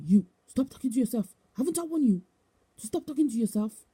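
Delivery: mildly stern retold telling-off, pitch lifting midway; imitated scolding. Bishop to woman talking to herself, imitated scolding. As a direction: play a bishop telling someone off.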